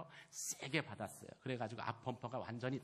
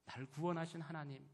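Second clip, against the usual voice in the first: ordinary talk, nothing marked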